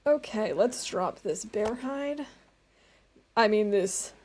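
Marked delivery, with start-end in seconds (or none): none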